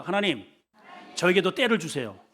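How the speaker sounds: 다부지게 힘주어 기도하듯; firm and resolute. Shown as a demonstration. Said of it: "다부지게 해봐요". (다부지고 단단하게)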